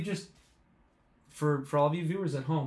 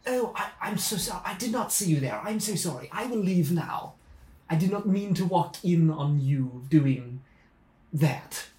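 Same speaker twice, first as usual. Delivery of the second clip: put-on a light Australian accent. Digger from down under apologises, light Australian accent. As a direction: play it as a lightly done Australian. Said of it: "is that an Australian accent?".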